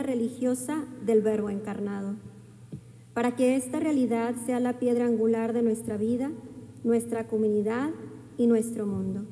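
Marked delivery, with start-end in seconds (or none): none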